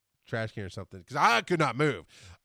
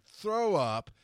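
word for retching sound; 6 semitones higher than usual. Shown as a demonstration. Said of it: "saying the word instead of the noise".

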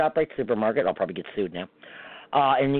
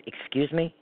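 polite; 3 semitones higher, 4 dB quieter, slower than usual. Retold or imitated. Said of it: "so I very nicely said".

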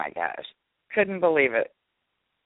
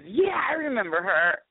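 retold excitement at suddenly remembering; delighted recognition; 4 semitones higher than usual. Retold fan suddenly recalls her.

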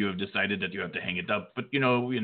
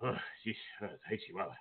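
panting after running up stairs; urgent panting report; out of breath; 3 semitones higher than usual. Real, not acted. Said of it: "I ran all the way".

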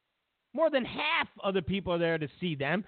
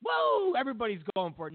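mock gushing voter; 4 semitones lower than usual. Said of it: "you're thinking".

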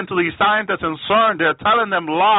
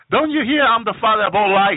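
lightly voiced devil, higher-pitched retort; Satan; 4 semitones higher than usual. Satan answering the pleading witches, lightly acted taunt. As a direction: throw it back mockingly, pitched up. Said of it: "Satan keep laughing with an evil laugh".

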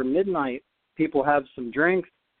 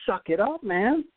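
mock tough coach; 6 semitones higher than usual. Luke got right up in my face.

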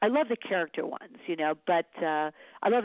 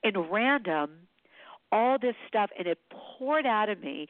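still choked up; 4 semitones higher than usual. Real, not acted. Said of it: "I could cry when I say it".

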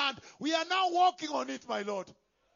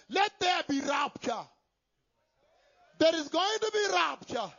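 preaching shout. Real, not acted. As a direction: cry it out to the congregation. Preacher proclaims the rapture.

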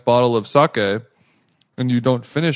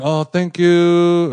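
higher, drawn-out grateful thanks; imitated grandmotherly thanks; lightly voiced grandma; 4 semitones higher, 4 dB louder, much slower than usual. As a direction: gush it slowly like a hint of grandma. Grandma gushing thanks in retold story.

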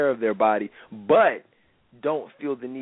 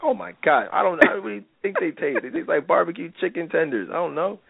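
exasperated; 5 semitones higher than usual. Retold or imitated. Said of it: "I'm like".

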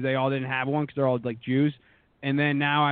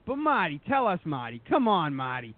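imitating a pushy interviewer, higher on the first Martys; mimicking the pleading interviewer; 5 semitones higher than usual. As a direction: needle him with a whiny, higher Marty, Marty. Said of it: "he's just like".

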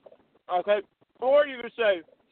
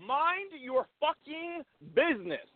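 high, slow, softer mock retort; drawn-out comeback; 7 semitones higher, 6 dB quieter, slower than usual. Coaching a friend's comeback to his wife, drawn out. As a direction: stretch every word in a higher voice.

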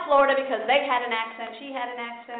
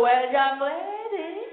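slow, mock-stern mother; mother lecturing her daughter slowly; stern mom; 3 semitones higher, 4 dB louder, slower than usual. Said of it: "she'd go".

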